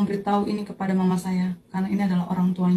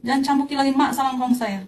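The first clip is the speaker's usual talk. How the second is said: raised, higher-pitched cry to stop; retold desperate shout; 5 semitones higher than usual. Granddaughter crying out to devils whipping her grandparents, retold shout. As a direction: reenact shouting at tormentors, without full volume. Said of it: "saya sempat teriak".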